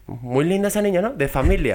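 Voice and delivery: high, lightly mocking mother; mock mom voice. Friend imitates his mom's remark, lightly high and mocking. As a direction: sweetly imitate a prim mother. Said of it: "Me decía".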